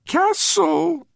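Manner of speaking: high, trembling earnest pipe; tiny piping voice. A narrator's reading. Blackface repeating the man's word, piping earnestly. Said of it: "His tiny piping voice trembled with earnestness".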